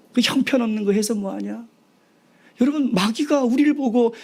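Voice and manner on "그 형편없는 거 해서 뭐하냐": higher-pitched scornful question; mocking taunt. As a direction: scoff like a jeering enemy. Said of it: "원수들이 계속 조롱하고 있거든요". (높은 음으로 조롱하듯 묻는 말투)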